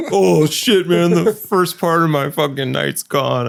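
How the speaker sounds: high, drawn-out complaint; mock dismay. Roommate heading into a Friday shift, acting out dismay. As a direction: imitate a roommate lamenting his ruined night.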